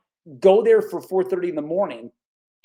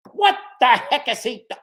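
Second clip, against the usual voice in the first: surprised; 8 semitones higher, 6 dB louder than usual. Real, not acted. Startled by TV monitor.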